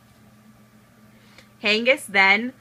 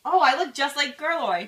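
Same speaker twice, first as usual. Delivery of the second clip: amazed; 6 semitones higher than usual. Acted. King sees magic disguise.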